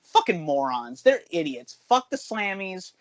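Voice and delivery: getting heated. Real, not acted. Ranting to podcast co-hosts about an award vote, heated. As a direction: rant with real, rising exasperation. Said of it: "I'm getting heated now. I'm getting heated".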